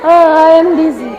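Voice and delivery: mock dizzy groan on "Oh"; acted dizziness. Teacher shows pupils what dizzy means, acted wooziness. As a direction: act a little woozy to show the meaning. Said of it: "Apa itu artinya dizzy?".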